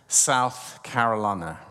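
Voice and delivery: slow Southern US accent. Real, not acted. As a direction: stretch it out with a Southern twang. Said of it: "I said that with a southern accent".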